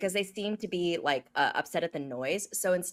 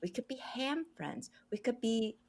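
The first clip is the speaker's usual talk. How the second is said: beam the words out gently, pitched up; meditative friendly transmitting; 4 semitones higher than usual. Acted. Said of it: "transmit because she does a lot of meditation".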